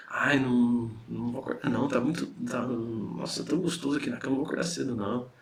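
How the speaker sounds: a hint of a lazy sleeper; sleepy lazy ego. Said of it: "Ele fala em primeira pessoa".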